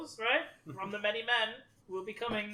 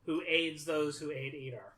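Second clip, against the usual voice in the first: solemn blessing; slower than usual. Acted. Cleric intones a blessing.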